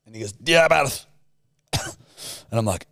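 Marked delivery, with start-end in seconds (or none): 0.5-1.0 lightly imitated thick Scottish nurse, a bit higher; mock a thick Scottish accent, mumbled; imitating the Scottish nurse's thick Scottish accent. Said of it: "most thick Scottish fucking accent".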